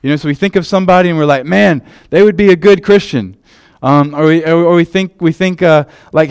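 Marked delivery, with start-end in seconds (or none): 1.5-3.4 higher, louder approving voice; mock judgmental churchgoer. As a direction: voice a smug churchgoer sizing someone up. Imitating churchgoers judging people.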